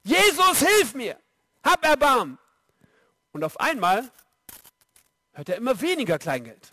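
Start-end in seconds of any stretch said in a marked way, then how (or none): 0.0-2.4 calling out. Retold or imitated. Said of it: "er fängt an zu rufen".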